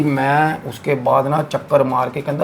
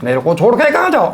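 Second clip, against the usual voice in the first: much higher, eerie, unnatural wail; inhuman creature voice; 9 semitones higher, 4 dB louder than usual. Retold or imitated. The jinn calling after the fleeing sailor in an eerie high voice. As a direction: make it sound not quite human, calling after him. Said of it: "वो इंसानी लहजा नहीं था".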